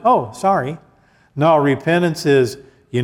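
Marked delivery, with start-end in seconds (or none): 0.0-0.8 tossing off "Oh, sorry." lightly, like it means nothing; a careless shrug of a sorry, lightly imitated; flippant mock apology. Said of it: "repentance is not just".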